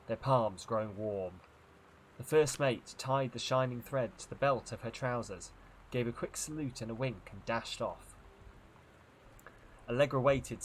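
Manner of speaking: measured storybook reading with dramatic pauses; story narration. A narrator's reading. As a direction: narrate an eerie adventure tale. Reads a story aloud.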